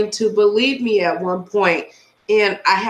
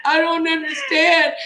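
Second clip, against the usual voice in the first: higher, whimpering imitation of a friend; mock crying; 4 semitones higher than usual. Imitating her friend overwhelmed by the case, mock crying. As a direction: whine it as if in tears. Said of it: "You're like".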